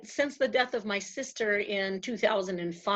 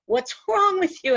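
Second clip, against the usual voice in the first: exasperated husband; 8 semitones higher, 5 dB louder than usual. Retold or imitated. Retold exasperated husband questioning her.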